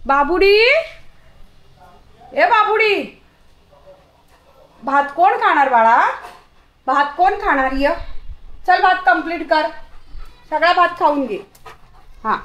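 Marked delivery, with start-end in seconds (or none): 0.1-11.4 calling the dog. Retold or imitated. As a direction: coax the puppy back to finish her rice. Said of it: "मी तिला आवाज देते".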